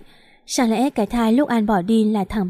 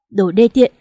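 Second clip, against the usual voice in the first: louder, spitting out the insult; angry shout; 5 dB louder than usual. Acted. Duy at the wedding, hurling the insult at the couple, angry and louder. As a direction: hurl the insult at them in a rage.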